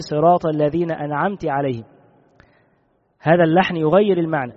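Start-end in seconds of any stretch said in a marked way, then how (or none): 0.0-1.8 أنعمت said as an'amti, ending in i; أنعمت as an'amti, the wrong reading; kasra on the ta. Shown as a demonstration. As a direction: end أنعمت on a clear i vowel. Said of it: "يكسر هذه التاء".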